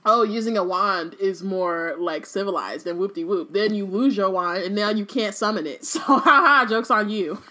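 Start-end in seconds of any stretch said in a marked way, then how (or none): 0.0-3.5 a hint of prissy snob; snooty mocking voice. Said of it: "how they go be on some".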